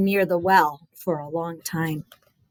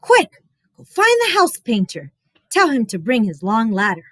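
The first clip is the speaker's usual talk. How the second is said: urgent mother. Acted. Mother sending Chen to the painter, urgent voice. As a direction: send him off fast.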